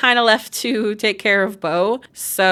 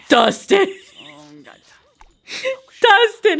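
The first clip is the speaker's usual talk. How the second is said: calling out; 10 semitones higher, 3 dB louder, slower than usual. Real, not acted. Calling to the character.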